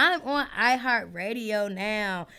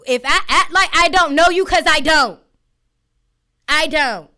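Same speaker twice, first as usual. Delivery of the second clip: laughing defiance; 4 semitones higher, 10 dB louder than usual. Real, not acted. Laughing defiance at fake fans.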